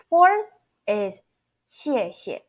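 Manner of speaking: 谢谢 with a falling first 谢 and a light second; 谢谢: first falling sharply, second short and toneless; 谢谢 as a fourth tone then a neutral tone. Shown as a demonstration. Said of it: "Fourth and then neutral tone".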